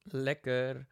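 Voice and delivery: just swallowed, drink on the lips; right after a sip; while sipping a drink. Real, not acted. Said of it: "mag ik nou even een slokje drinken". (net een slokje genomen)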